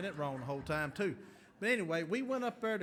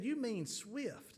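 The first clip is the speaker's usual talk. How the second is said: drawn-out, puzzled You mean Swift?; mock puzzled local asking back; slow puzzled question; 5 semitones higher, much slower than usual. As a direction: ask You mean Swift? slowly in disbelief. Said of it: "They said".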